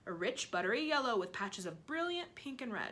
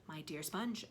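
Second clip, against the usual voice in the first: slow sly; 4 semitones lower, 6 dB quieter than usual. Acted. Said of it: "Aunt Spiker said slowly".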